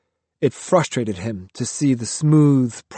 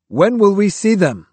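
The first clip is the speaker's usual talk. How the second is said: raised, higher demand; 8 semitones higher, 5 dB louder than usual. A narrator's reading. Monk Kyo demanding answers from Roshi. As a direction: press the old master for an answer. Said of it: "he demanded".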